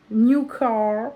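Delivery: lightly put-on English accent on "New Car"; mock English accent. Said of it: "Oui, j'ai un accent anglais". (petit accent anglais pour rire)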